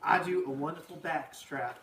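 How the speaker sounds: hammed-up diner cook rushed off his feet; Earl the cook. Teacher as cook Earl takes the kids' orders, hammed up.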